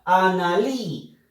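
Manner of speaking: "Analí" lento, con fuerza en la última sílaba; acento en última sílaba. Shown as a demonstration. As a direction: alarga "Analí" y marca la "lí" final. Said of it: "última sílaba es la que lleva la fuerza de voz". ("Analí" pausado, acentuando el final)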